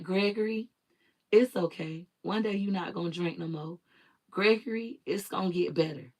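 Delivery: gentle reassurance. Retold or imitated. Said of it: "'Cause she was like".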